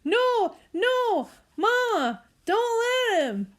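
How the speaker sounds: put-on very high, loud, muffled boy's cries; mumbled panicked pleading. Stuck Byron begs Ma, mumbling in panic. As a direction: plead as if the lips are stuck fast. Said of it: "and mumbling".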